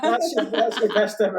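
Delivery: words broken by laughter; laughing. Real, not acted. Photographer laughing as she wraps up the drunk best man story. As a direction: laugh out the punchline.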